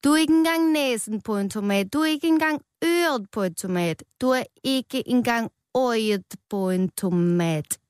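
rowdy tomatoes jeering; mock yelling. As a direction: tomatoes shouting insults at Rød. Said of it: "begyndte alle de andre tomater at råbe af ham".

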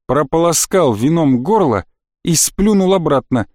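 ordinary delivery

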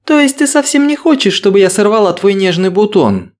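high, coy and teasing; sly flirting woman. Acted. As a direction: purr it with a sly wink. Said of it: "Лукаво подмигнула Ангелина".

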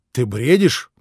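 crooked smirk. A narrator's reading. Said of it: "бледно и искривлённо усмехнувшись".

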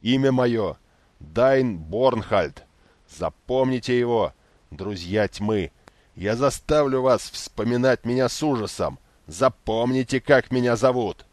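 loud, slow, furious threat; shouted threats. A narrator's reading. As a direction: bellow it after them. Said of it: "посылавшего вслед путникам угрозы". (яростные угрозы вслед)

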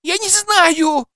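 very high, slow frightened wail; girl howling back at her captor. A narrator's reading. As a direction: wail it out in panic. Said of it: "завопила Кира".

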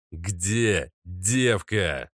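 very slow menacing growl, stretched out; slow repeated growl. Acted. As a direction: drag every word out as a threat. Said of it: "повторил незнакомец".

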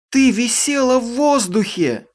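high piercing accusing shout; shrill cry. Acted. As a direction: scream it at her, high and loud. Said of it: "пронзительно крикнула она".

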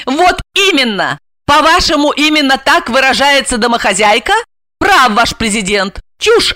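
high, emphatic woman's voice; scoff, then boast of herself; indignant heroine. Acted. Asya boasts of her speech. (задорно, возмущённо, высоким голосом)

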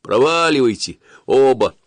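loud gruff dismissal; dismissive guard. A narrator's reading. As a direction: shoo them off roughly. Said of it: "страж лишь пожал плечами".

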